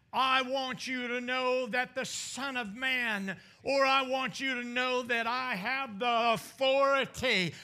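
authority rising into a loud peak; building preached declaration. Retold or imitated. Preacher as Jesus answering the teachers, building preached declaration. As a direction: build in force toward the key word.

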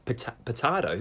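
"potato" said puh-TAH-toh, questioning; puzzled broad TAH in "potato". Shown as a demonstration. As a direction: query "potato" with AH in the middle. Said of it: "Who's the fuck is saying potato".

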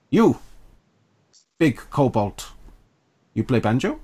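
halting kobold, soft and simple; lightly voiced creature picking words one by one; small creature voice. Kobold questions the banjo player, small creature voice. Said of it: "trying to do a small creature accent".

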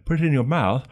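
plummy Queen's English demo. Shown as a demonstration. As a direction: demonstrate hot-potato Queen's English. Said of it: "The Queen's English".

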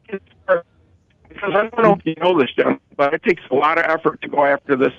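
choppy phone line; cutting in and out; radio breaking up. Real, not acted. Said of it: "you're breaking up a little bit".

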